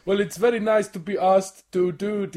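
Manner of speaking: mock accent that drifts Dutch; Dutch-sounding accent. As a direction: aim for German, land on Dutch. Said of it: "You sound Dutch".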